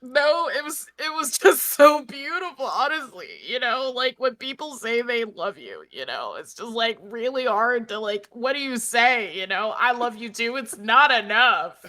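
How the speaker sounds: lightly acted teary gushing; mock tearful. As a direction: play moved to tears, half laughing by the end. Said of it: "He's, like, just sobbing".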